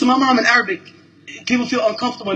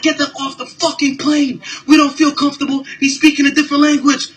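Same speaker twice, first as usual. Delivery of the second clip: higher, mock-outraged complaint; mocking a hostile passenger; 5 semitones higher than usual. Imitating a passenger who demands they leave, higher and mocking. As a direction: ham up a nervous, pushy passenger. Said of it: "He was like".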